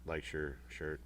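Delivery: slow hushed whisper, no voice; whispered aside. Real, not acted. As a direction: lean in and whisper it slowly. Quiet aside during conversation.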